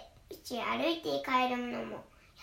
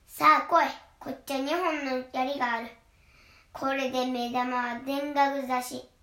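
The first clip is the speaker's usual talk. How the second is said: defiant big goat; 4 dB louder than usual. Acted. Big goat challenges troll.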